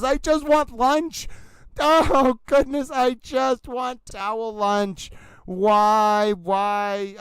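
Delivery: high, slow mock whine; whiny. Real, not acted. Streamer whines to chat about wanting lunch, high and slow. Whining for lunch during recess.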